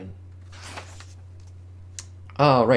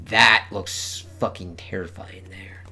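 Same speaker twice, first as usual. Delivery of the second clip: slow hushed whisper; 3 semitones lower than usual. Real, not acted. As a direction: breathe it out slowly. Whispered reaction to cover.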